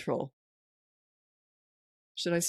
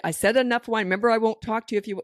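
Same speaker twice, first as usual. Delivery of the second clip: imitating a parent's raised, hurried reminder; louder and higher, as a parent losing patience; mock fed-up parent; 5 semitones higher, 5 dB louder, faster than usual. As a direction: play the parent who can't stop responding. Imitating parents who answer whining.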